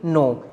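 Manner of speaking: नो said with no K sound; silent K. Shown as a demonstration. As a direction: begin नो straight on the N. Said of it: "इसमें के की कोई sound नहीं है".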